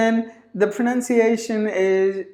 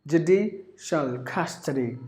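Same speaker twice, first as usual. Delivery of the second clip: "Judicial" split before the shul; soft, measured "Judicial custody" with a small break; broken into syllables; 3 semitones lower, 6 dB quieter than usual. Shown as a demonstration. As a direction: linger on dee in "Judicial". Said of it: "Three syllables".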